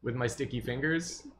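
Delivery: high, eager nervous intern; nervous young professional. Acted. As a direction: babble like a flustered young intern. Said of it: "The intern goes".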